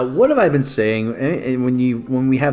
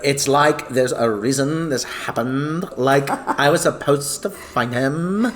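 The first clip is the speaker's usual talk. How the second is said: dreamy distant voice; slower than usual. Shown as a demonstration. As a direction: drift off as if lost in destiny. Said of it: "you have to read it like that".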